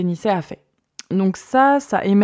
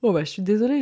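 talking through a yawn; words stretched by a yawn; 3 semitones higher, faster than usual. Real, not acted. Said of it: "je bâille".

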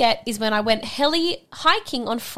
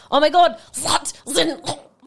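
imitating Flemish; 3 semitones higher, 4 dB louder than usual. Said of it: "So should I more say it".

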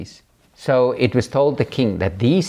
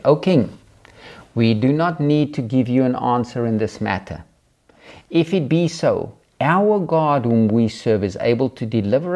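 put-on bold raised voice reading the young men's answer; defiant scripture reading. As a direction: read it like a stand against the king. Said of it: "I'm gonna read this to you".

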